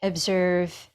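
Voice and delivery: unhurried meditation guidance with long pauses; guided meditation. Acted. Yoga teacher settling students into breath and awareness, guided meditation. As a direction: guide them inward, leaving space between phrases.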